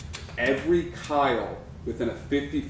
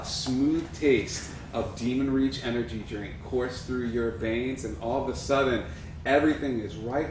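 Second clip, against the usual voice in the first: ad read. Acted. Energy drink ad pitch.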